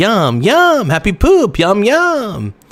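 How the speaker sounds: high, slow, drawn-out squeaky talking toy voice. Speaker joking about wanting to be a cartoon voice actor, Furby voice. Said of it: "I feel like I'm a Furby".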